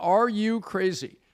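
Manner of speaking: loud hollering, incredulous yell. Retelling how a park ranger shouted at tourists: imitating a ranger yelling. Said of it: "yelling at people like this".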